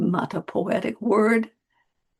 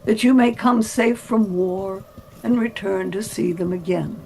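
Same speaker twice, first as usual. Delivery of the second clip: measured, unhurried reading over music; story narration. A narrator's reading. Narrator reading Gimli and Legolas's exchange aloud, unhurried. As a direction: read it like an audiobook narrator.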